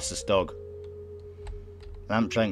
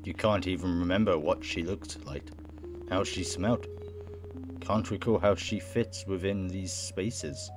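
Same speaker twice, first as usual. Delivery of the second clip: measured, subdued reading; unhurried narrator; story narration; 7 dB quieter, slower than usual. Acted. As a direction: read it out soberly, slowing at the end. Reads game narration aloud.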